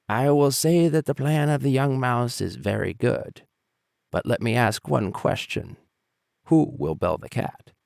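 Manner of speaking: put-on old mouse deflating the plan; wise old mouse. A narrator's reading. Old mouse asks question.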